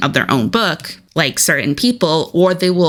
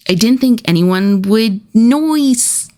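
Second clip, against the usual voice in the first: mock sheepish; 5 semitones higher than usual. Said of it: "Every time I read that quote".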